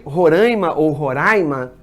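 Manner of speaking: "Roraima" nasal "rãi" first, then open "rai"; two pronunciations contrasted. Shown as a demonstration. Teacher turns to the problem case, contrasting both pronunciations. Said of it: "Tem gente que nasaliza".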